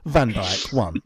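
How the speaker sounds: mock results-reader delivery; football results announcer. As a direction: announce the player's points like a score. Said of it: "fantasy team points that way".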